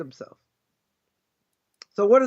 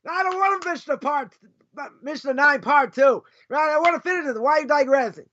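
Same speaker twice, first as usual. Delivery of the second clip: impatient student; 2 semitones higher than usual. Retold or imitated. Teacher mimics a student urging him to move on, mock impatient. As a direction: play the student whining to get on with the Mishnah. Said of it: "you're gonna scream at me".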